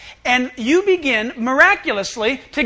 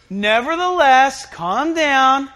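slow, stretched-out reassurance; lightly acted, settling down a panicked group; Jesus calming disciples; 5 dB louder, much slower than usual.

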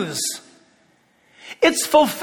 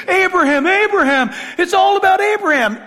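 higher, lightly mimicked insistence; imitating insistent objectors; 4 semitones higher than usual. Preacher quoting those who claim Abraham, lightly mimicked insistence. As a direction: quote them in a quick, higher chant. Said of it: "the Jews will say".

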